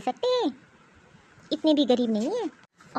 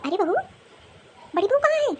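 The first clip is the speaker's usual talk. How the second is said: calling out; 8 semitones higher than usual. Acted. Mother-in-law shouts for elder daughter-in-law.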